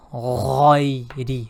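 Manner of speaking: Ghayri with a voiced gargled Ghain from the top of the throat; Ghain from upper throat. Shown as a demonstration. Teacher demonstrating Ghain in Ghayri. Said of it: "using the top of your throat".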